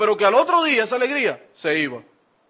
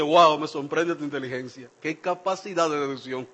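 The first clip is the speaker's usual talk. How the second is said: tono irónico; 6 semitones lower, 4 dB quieter than usual. Retold or imitated. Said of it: "eso es un lenguaje irónico".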